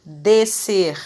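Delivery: "Descer" as de-SER, SC as one S; single S sound. Shown as a demonstration. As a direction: say "Descer" with no S closing the first syllable. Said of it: "Eu falo descer".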